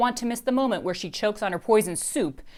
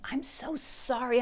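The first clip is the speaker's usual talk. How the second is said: slow, breathy whisper; 6 semitones higher, 3 dB quieter, slower than usual. A narrator's reading. Mr Noogie whispers his apology to Dory, slowly. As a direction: whisper the apology close to her ear. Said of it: "Mister Noogie whispers to me".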